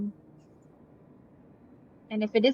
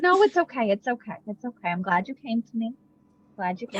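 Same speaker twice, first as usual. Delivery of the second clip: gentle reassurance. Acted. Patting a friend's hand to comfort them, gentle reassurance. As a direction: comfort them tenderly, letting the voice drop.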